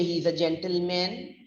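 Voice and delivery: "gentleman" with a full "men" ending, clear e as in ten; wrong pronunciation. Shown as a demonstration. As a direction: end "gentleman" on a distinct, rising "MEN". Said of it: "we don't say he's a gentleman".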